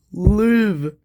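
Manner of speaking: a hushed high plea; pleading plea. Acted. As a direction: beg him to live. Begging a dying friend.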